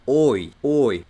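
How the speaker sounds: drawn-out, firm "oi" diphthong; EU suena oi. Shown as a demonstration. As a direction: say "oi" slowly as the German EU. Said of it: "cada que tengo una E y después una U". ("oi" alargado, diptongo alemán)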